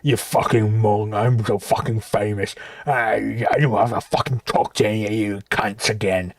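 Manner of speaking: mocking Dave. Mocking Dave's arrogant voice.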